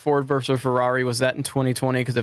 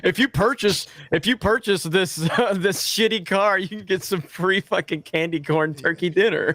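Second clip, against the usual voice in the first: car salesman voice; 3 semitones higher than usual. Retold or imitated. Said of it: "He looks like a used car salesman".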